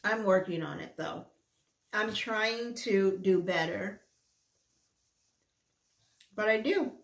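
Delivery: words round a mouthful of food; mouth full. Real, not acted. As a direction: still chewing a bite. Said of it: "Talking with my mouth full".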